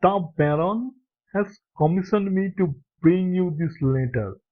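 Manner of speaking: a smile in the voice, light French lilt; smiling, slight French accent. Acted. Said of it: "the old gentleman said with a smile".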